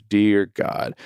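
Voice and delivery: measured "Dear God"; set prayer opening. Shown as a demonstration. Dad praying over his son, lightly deliberate. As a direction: begin a familiar bedtime prayer. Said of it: "I say it just like that".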